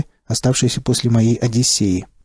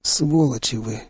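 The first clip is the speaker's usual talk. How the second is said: slow, soft strained curse; squeezed out; 4 dB quieter, slower than usual. Acted. Narrator squeezes out a slow, soft curse at his comrades. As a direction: force the words out through weakness. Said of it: "выдавил я из себя".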